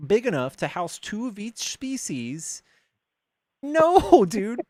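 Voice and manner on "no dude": loud, high drawn-out disbelief; stunned, exasperated protest; incredulous outburst. Real, not acted. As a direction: balk at an absurd question, slowly.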